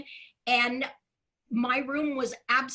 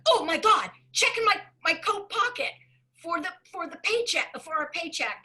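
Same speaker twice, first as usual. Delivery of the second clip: excited realization; 4 semitones higher than usual. Retold or imitated. Retold panicked realization.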